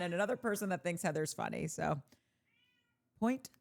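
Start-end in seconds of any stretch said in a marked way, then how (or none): 3.2-3.5 whispered aside. Real, not acted. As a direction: lean in and whisper it like a secret verdict. Quiet aside after reading comment.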